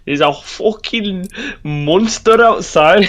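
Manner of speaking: slow high Scottish whisper. Acted. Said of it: "a Scottish accent".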